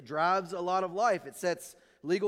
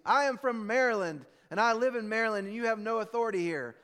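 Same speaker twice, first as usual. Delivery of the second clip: put-on drunk insisting; 3 semitones higher than usual. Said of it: "He goes".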